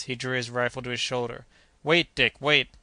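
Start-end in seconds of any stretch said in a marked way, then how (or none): 1.8-2.7 urgent call. Acted. Doctor stops Kennedy firing.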